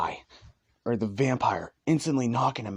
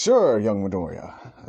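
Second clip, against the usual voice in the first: slow hero voice; 7 dB louder than usual. Acted. All Might answers kindly.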